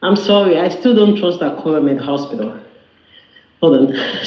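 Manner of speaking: winded after climbing stairs; out of breath. Real, not acted. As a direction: talk while catching your breath. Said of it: "I'm out of breath".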